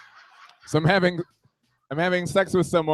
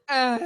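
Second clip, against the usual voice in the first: high short mock moan; tennis-grunt moan; 6 semitones higher than usual. Trading moans like tennis, high mock grunt. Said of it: "like a women's tennis match".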